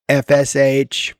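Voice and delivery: slow spelling in mock British; imitated British assistant; British accent. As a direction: spell it out slowly as a British-voiced AI. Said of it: "I have it doing a British accent".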